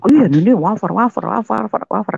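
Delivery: put-on high-pitched excited child; anak kegirangan. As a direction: rattle it off like a delighted kid. Excited child showing off wafers. (suara anak yang girang)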